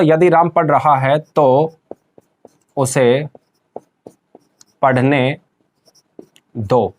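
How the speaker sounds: slow phrase, then single words set apart; slow dictation. Shown as a demonstration. Teacher writing a sentence for students, slow word-by-word dictation. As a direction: dictate slowly with long gaps at the end.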